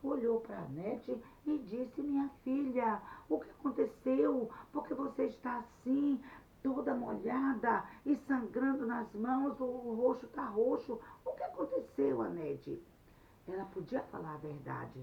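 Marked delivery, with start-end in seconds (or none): 2.0-12.8 alarmed concern. Acted. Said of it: "ficou assim assustado".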